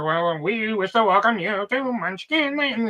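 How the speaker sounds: slow, put-on Good Witch voice; hammed-up sugary Glinda, drawn out; mock Glinda. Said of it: "She's like".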